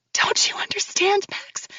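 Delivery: breathy high whisper; barely voiced, each word hurting. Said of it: "my words breathy".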